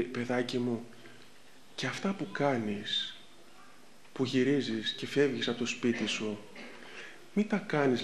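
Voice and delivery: retold humble elder, quietly; very humbly. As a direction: speak gently as a humble elder. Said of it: "πολύ ταπεινά".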